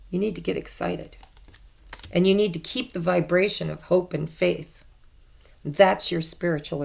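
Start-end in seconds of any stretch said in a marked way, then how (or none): 0.1-1.2 soft, fast repeat under the breath; quiet. Real, not acted. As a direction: murmur it quickly to yourself. Repeating the urge to herself.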